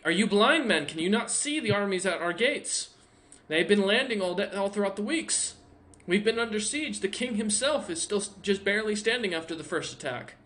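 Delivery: a lightly voiced dwarf warning of the siege; dwarf guard. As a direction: plead the siege, voice up and pressing.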